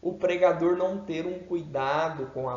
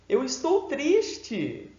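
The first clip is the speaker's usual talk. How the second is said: mismatched bright delivery; 8 semitones higher, slower than usual. Shown as a demonstration. Teacher showing a voice that contradicts sad words. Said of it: "A voz precisa condizer com as palavras".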